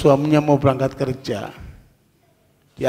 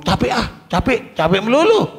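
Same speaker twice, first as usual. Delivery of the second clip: higher, whining tired wife; mock whiny complaint; 6 semitones higher than usual. A preacher mimics a tired wife refusing her husband, mock whine. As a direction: moan that you're always tired, hammed up. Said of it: "Bukan ngomong".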